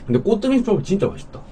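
talking between bites; chewing while talking. Real, not acted. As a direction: mouth partly full. Seen 2: Mouth moves with food; sushi held in chopsticks during speech.

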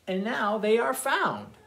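slow singsong counting rhyme; reading to children. A narrator's reading. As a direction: read it slowly to little ones.

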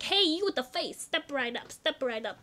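mild mock carnival barker shout; carnival barker call. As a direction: hawk it lightly like a fairground barker. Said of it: "the guy that shouts like".

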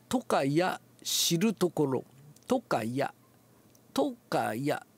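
とかや with a tight push on とか; tense accent on toka. Shown as a demonstration. Teacher showing the tense accent in とかや. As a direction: squeeze tension into とか of とかや. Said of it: "とかやのとかアクセント".

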